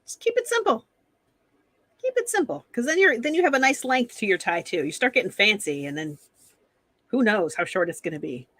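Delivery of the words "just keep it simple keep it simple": high breathy whisper; conspiratorial whisper; whispered advice. Real, not acted. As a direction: pass on the tip in a hushed aside.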